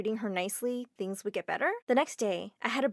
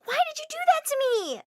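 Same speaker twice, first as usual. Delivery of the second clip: much higher, loud tearful wail; crying; 6 dB louder than usual. Acted. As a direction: sob the question out. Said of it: "She burst into tears and said".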